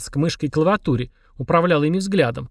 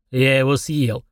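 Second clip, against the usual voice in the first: proud boast in a put-on demon voice; slower than usual. A narrator's reading. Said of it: "гордо сказал".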